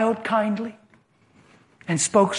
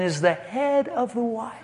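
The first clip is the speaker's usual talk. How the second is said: angry husband; 5 semitones higher, 3 dB louder than usual. Retold or imitated. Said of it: "He said".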